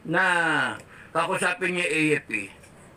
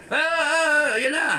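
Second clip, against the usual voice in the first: high, jittery mock panic; 9 semitones higher than usual. Mocking reckless protesters, high mock panic. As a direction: imitate a hothead losing his nerve. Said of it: "hindi yung ganyan na".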